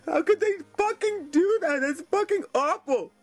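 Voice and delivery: choked up, on the verge of crying; upset and tearful. Real, not acted. Man reacting to TV documentary slandering Dave, upset and tearful. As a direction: let distress push the voice up. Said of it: "I am so upset right now".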